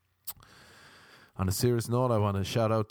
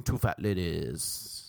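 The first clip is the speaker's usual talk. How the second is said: bingo caller; 9 semitones lower, slower than usual. Pretend. Slowed low bingo call.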